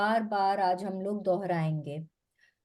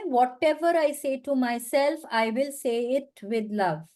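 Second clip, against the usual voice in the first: words drawn out one by one; slow affirmation; much slower than usual. Shown as a demonstration. Coach repeating the affirmation for listeners, slow. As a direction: say it slowly and mean it. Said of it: "क्या बोलना है".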